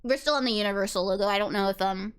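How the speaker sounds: talking while chewing a scone; mouth full. Real, not acted. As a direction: speak through a mouthful of scone. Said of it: "Sorry, I'm chewing the scone".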